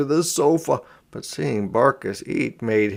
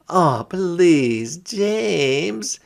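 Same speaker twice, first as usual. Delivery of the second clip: put-on high, pleading little girl voice; begging girl; 7 semitones higher, 4 dB louder, much slower than usual. A narrator's reading. Sister begs her brother to trade pets. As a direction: beg your brother sweetly. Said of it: "she begged".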